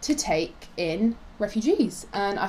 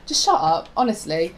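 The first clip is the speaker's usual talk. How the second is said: laughing dismissal; 3 semitones lower than usual. Real, not acted. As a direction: laugh through it, exasperated. Laughing dismissal of MP's claims.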